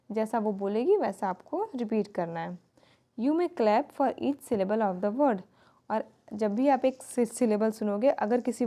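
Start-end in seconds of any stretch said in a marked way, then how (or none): 3.2-5.4 slow instruction read. Shown as a demonstration. Teacher reading textbook instruction.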